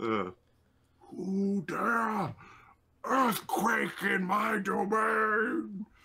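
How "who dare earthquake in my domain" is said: enraged, high, slow crying shout in a regal fairy voice. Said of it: "Monarch and Darta".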